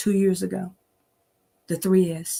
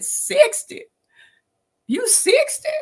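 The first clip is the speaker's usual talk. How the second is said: squeaky high mock astonishment; surprised disbelief; slower than usual. Stranger reacting to her age, high and astonished. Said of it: "They said".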